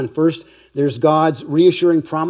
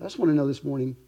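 usual speaking voice

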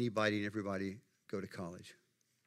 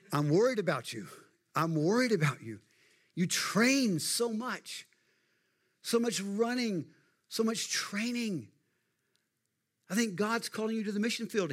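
voicing a worried sister; 10 semitones higher, 5 dB louder than usual. Sister Jenny urges Eric toward missions, high pleading voice. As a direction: plead like an anxious older sister. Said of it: "she says something like".

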